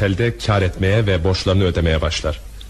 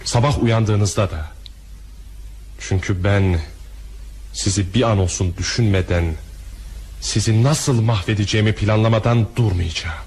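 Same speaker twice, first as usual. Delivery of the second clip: cold threat. Acted. Bitter threat to the banker.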